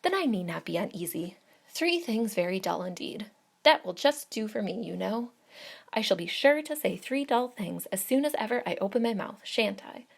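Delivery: 1 eager chatter. A narrator's reading. Miss Bates chatters eagerly.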